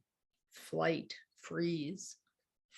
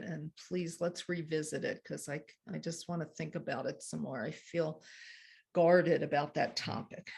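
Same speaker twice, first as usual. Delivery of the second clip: calm I-message. Shown as a demonstration. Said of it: "I'm gonna calm myself down".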